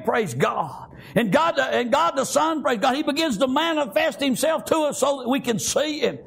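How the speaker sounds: full-force preaching. Real, not acted. Preacher urging people to look for the Son, full-force preaching. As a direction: proclaim it in rhythmic bursts.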